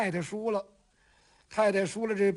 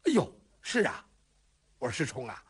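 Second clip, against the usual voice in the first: softened tone; 8 semitones lower than usual. Acted. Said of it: "把这话就缓和下来了".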